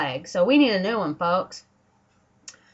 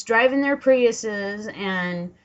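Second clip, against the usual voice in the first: normal talking voice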